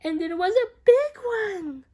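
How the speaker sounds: dramatic exclaim. A narrator's reading. Narrator exclaims at Beatrice's big mistake, loud dramatic. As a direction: land the big reveal.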